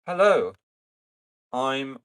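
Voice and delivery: rough raspy dwarf greeting. Acted. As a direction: rasp out the hello. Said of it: "in a raspy voice".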